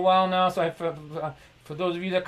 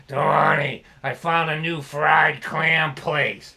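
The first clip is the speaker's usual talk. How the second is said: slow, low imitation of his eighty-year-old dad; 3 semitones lower, 3 dB louder, much slower than usual. Comic imitates his old dad announcing a clam place, slow and low. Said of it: "he talked like this when he was in his eighties".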